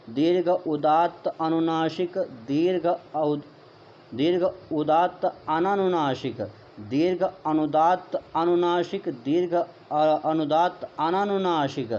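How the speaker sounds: each term said clearly with a pause, ह्रस्व leading every item; measured recitation. Shown as a demonstration. Teacher showing students how to say the terms, deliberate recitation. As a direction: recite the list carefully like a Sanskrit teacher. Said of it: "कैसे बोलेंगे मित्रों?".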